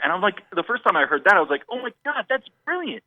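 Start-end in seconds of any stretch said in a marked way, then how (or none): 1.7-3.0 awed delight. Retold or imitated. Retold delight at first hearing.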